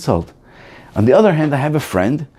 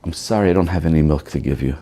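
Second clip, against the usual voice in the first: apologetic smile; 7 semitones lower, faster than usual. Shown as a demonstration. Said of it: "pathetically smile".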